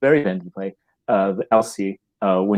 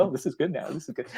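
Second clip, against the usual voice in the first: higher, much softer aside; hushed approval; 5 semitones higher, 11 dB quieter than usual. Acted. Audience member as the play recovers, hushed approval. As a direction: murmur it like a pleased private thought. Voicing audience's renewed interest.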